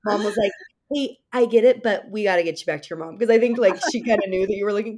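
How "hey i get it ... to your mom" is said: lightly voiced grandma, louder at first; friendly but firm, herding the boy home; grandma's gentle order.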